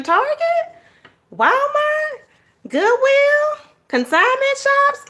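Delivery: high-pitched lilting list of stores; sing-song list. Real, not acted. Listing cheap stores, sing-song.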